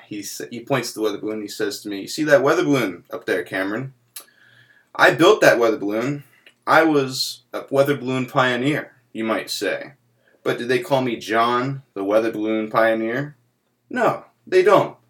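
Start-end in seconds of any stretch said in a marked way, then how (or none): 2.0-13.4 Uncle John voice. Retold or imitated. 13.9-15.0 high, drawn-out mock lament; Uncle John's lament.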